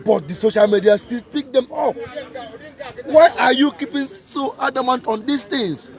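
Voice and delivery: ordinary delivery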